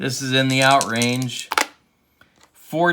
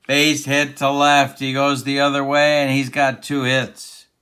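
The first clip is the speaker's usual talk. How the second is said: excited play-by-play; 4 dB louder than usual. Pretend. Calling a base hit live.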